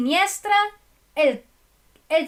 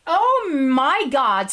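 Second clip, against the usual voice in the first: surprised; 5 dB louder, slower than usual. Real, not acted. Surprised by names.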